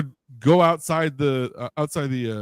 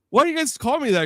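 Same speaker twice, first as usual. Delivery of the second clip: puzzled question; 13 semitones higher than usual. Retold or imitated. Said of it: "I'm like".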